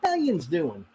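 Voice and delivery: lightly voiced regional "Yins" drawl; imitating a Pittsburgh yinz. Quoting a friend's mom, mild Pittsburgh "Yins". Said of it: "she always used to say".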